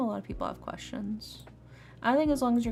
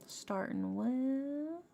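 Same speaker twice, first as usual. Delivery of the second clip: Southern accent; 3 semitones higher, slower than usual. Real, not acted. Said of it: "go into a Southern accent".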